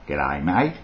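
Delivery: slow, broad Aussie with swooping tune; Australian accent. Acted. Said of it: "Lindy Chamberlain's Australian accent".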